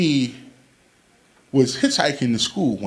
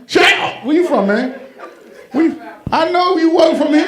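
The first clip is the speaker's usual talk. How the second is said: higher, playful mock outrage; teasing disbelief; 13 semitones higher than usual. Real, not acted. Comedian teasing an audience member who missed the movie, high and playful. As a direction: tease the guy like you can't believe it.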